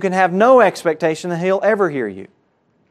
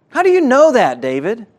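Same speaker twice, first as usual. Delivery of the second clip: incredulous question; 5 semitones higher than usual. Pretend. Preacher challenges David again.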